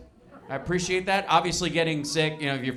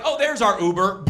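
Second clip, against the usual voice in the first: shouted relief, pitched up; loud relieved; 4 semitones higher, 6 dB louder than usual. Retold or imitated. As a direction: call it out, saved by the ride. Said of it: "as soon as you're like".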